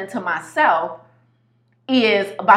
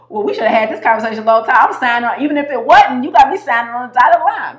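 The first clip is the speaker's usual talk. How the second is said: excited; 4 semitones higher, 6 dB louder, faster than usual. Retold or imitated. Excited self-quote, fast and loud.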